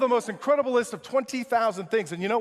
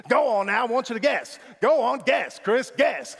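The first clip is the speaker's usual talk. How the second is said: mildly loud, higher prodding; insistent urging; 4 semitones higher, 4 dB louder than usual. Retold or imitated. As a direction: imitate someone egging a friend on. Retold man urging a guess.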